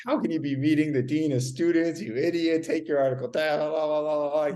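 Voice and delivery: mildly worked-up imitation of a scolding father; mock a dad freaking out, running into blather; furious dad. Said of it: "he's freaking out. He's, like, furious with me".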